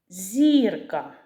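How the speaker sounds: "Зірка" with the first syllable stressed and drawn out; наголос на першому складі. Shown as a demonstration. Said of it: "На який склад падає наголос?". («Зірка» з протяжним наголосом на першому складі)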